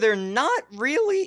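voice suddenly cracking very high. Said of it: "that was a voice crack and a half".

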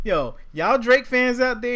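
high-pitched, loud, slow calling out.

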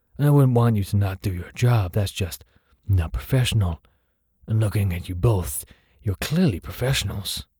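rough, overconfident menacing tone. A narrator reads a voice warning two guards, gravelly, gruff, overconfident threat. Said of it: "A gravelled, gruff, and overly confident in its threat, voice. ... A gravelled, gruff".

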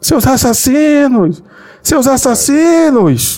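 play-acted woman's high-pitched, accusing shout. Telling a funny story about a woman atop a building, retelling a woman's shout. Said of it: "Aí começou a gritar".

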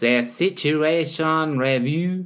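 cartoon show intro narrator voice. Show host announcing the review segment, SpongeBob narrator voice. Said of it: "You sound like the narrator from SpongeBob".

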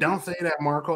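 plain

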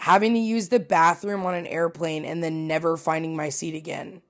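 plain

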